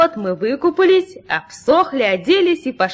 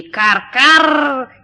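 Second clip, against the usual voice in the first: mock crow caw; 3 semitones higher, 8 dB louder than usual. A narrator's reading. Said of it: "каркнула от удивления".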